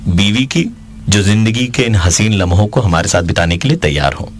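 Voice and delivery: ordinary delivery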